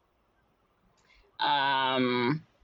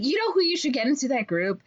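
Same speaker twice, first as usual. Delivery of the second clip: sly salesman suggestion; 3 semitones higher than usual. Retold or imitated.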